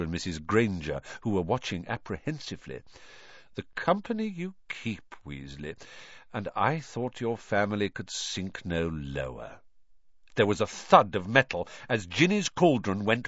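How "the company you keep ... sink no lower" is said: sneering contempt. Acted. Lucius sneers at the Grangers.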